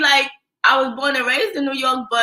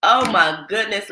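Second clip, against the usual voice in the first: imitated Southern twang, a touch lower; 4 semitones lower than usual. Imitating a lady on the line, Southern twang. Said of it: "Southern twangs".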